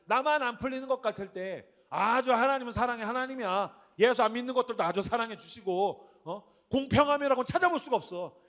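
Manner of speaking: a hint of a bitter churchgoer mocking God; sarcastic complaint. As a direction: grumble sarcastically like a jealous believer. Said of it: "우리가 하나님을 비꼬듯이".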